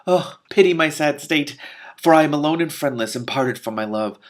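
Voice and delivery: high, loud lamenting damsel; weeping princess. Acted. Princess bewailing her lost love to Daystar, lamenting. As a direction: wail it like a tragic princess.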